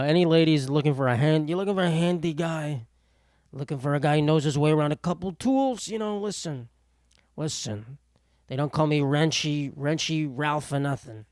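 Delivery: cheesy ladies' man pitch; smooth pickup voice. Acted. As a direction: sell yourself like a sleazy flirt. Mock pickup line to ladies.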